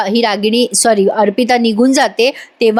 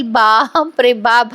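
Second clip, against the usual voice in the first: bap re bap; much slower than usual. Real, not acted. Narrator marvels at the drama.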